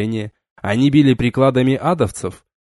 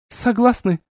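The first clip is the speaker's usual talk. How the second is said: shouted; 10 semitones higher than usual. A narrator's reading. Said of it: "прокричала девушка".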